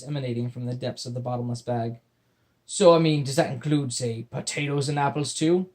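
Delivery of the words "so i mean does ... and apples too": gruff pirate voice. Acted. Pirate asks hopefully.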